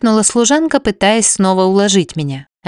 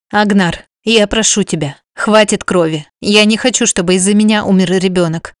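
usual speaking voice

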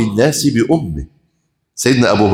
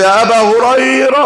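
louder call; 8 semitones higher than usual. Acted. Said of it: "بصوت عالي".

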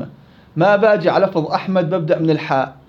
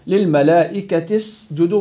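recitation demo; slower than usual. Shown as a demonstration. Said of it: "بكمل، ما عندي إشكالية".

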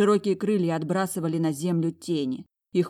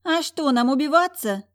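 high, louder scornful retort; haughty sister mocking the lost lairds, a little louder; 10 semitones higher, 6 dB louder than usual. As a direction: toss it off with contempt. Sister sneers at ruined family.

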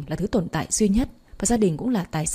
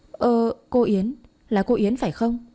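slow, higher, wide-eyed disbelief; surprised recognition; 4 semitones higher than usual. Acted. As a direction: drag it out in startled surprise. My stares, recognizing Yến. (ngạc nhiên, chậm và cao giọng)

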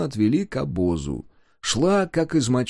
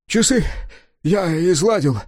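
panicked cry; 6 semitones higher, 4 dB louder than usual. A narrator's reading. Woodcarver confesses in panic.

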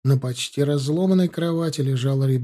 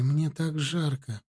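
put-on slow, soft eerie little girl; eerie child voice; 5 dB quieter, slower than usual. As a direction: whimper it like a feverish child. Possessed child speaks.

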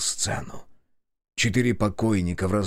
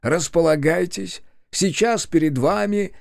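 solemn address; 7 semitones higher than usual. Acted. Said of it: "торжественно начал Ильич".

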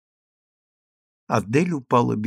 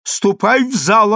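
called through a door; 8 semitones higher, 5 dB louder than usual. Acted. Отвечала она через дверь.

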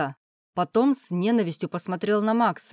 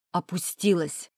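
spat out. Acted. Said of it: "выплюнул он".

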